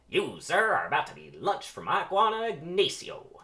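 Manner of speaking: high, loud fencing boast; loud villain taunt. Acted. Hector taunting Barry mid-duel, loud and high. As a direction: crow it like a cocky swordsman.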